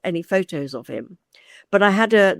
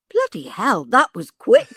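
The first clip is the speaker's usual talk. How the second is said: retold disbelief, rising to a louder finish; stunned pause, then a higher, louder punchline; 3 semitones higher, 4 dB louder than usual. New client to his agent after the news, stunned.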